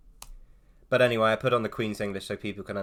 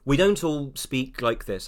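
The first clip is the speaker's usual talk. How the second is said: Queen's English. Shown as a demonstration. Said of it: "I'm putting on the Queen's English".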